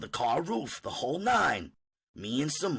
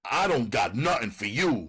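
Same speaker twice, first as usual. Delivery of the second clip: growling; 3 dB louder than usual. Acted. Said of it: "he growled at her".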